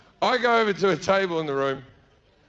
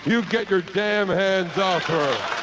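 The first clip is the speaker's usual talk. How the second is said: timid, slow attempt at bravado; a nerdy hero finding his nerve, slowly; mock McFly stand-off, shaky courage; nervous George McFly; much slower than usual. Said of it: "like George McFly".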